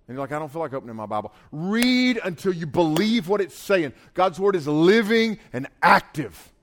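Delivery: forceful exhortation, leaning on each stressed word; emphatic preaching. Real, not acted. Preacher urges listeners to read God's Word, emphatic preaching.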